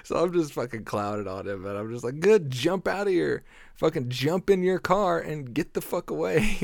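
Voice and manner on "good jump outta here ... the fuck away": loud, high retort thrown at him; retold outburst, raised voice ordering him off; angry telling-off. Tells off intruder in retelling.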